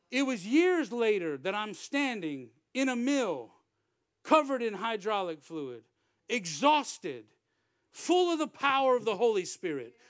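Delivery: punched, deliberate pulpit delivery; emphatic preaching. Real, not acted. Preacher recalling standing exhausted in a mill, emphatic preaching. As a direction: build in force, phrase by phrase. Preacher builds to sermon climax.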